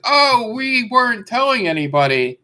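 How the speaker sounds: high-pitched mock-innocent company voice; mock innocence. Streamer mimicking Twitch acting as if it hid deals, mock innocence. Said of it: "Twitch making it act like".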